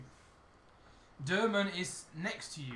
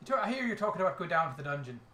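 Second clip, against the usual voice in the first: light Irish brogue; Irish accent; 5 dB louder, faster than usual. Acted. Irish tavern character asking lads about the dungeon, Irish accent. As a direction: put on a mild Irish lilt. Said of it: "I haven't been Irish in a while".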